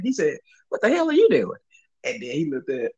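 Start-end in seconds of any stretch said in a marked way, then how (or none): 0.7-1.6 high put-on angry voice; mock country dude scolding a young worker; imitated cussing customer. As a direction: sneer it at the kid. Quoting the dude again.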